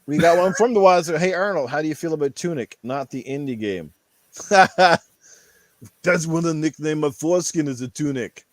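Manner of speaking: put-on Austrian accent, Arnold style. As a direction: growl it out like the action star. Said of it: "Ask Arnold".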